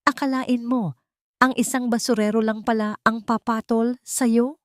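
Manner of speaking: mock her with poison in every word; venomous mocking rival. A narrator's reading. Rival sneering at Tala in the hospital lobby, venomous mockery. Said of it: "Ang boses ni Uwaina ay tumataginting".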